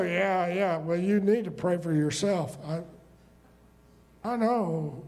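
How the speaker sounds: low, lightly mocking brush-off; a hint of a smug churchgoer; dismissive brush-off. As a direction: mimic someone waving off prayer.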